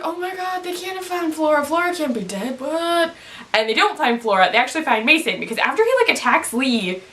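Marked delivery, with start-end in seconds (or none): 0.0-3.1 high, hushed alarmed gasp; mock panic. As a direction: play the frightened viewer. Viewer panics at found body.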